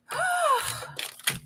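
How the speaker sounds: exasperated sigh. Real, not acted. Frustrated over mark on the bag.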